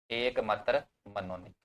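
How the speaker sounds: measured, drawn-out words; unhurried, with a gap between words; slow dictation. Real, not acted. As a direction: dictate slowly for note-takers. Dictating slowly as students write.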